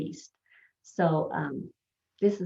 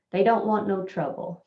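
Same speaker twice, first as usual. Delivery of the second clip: wrong version said louder; 3 semitones higher, 4 dB louder than usual. Shown as a demonstration. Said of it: "So that's incorrect".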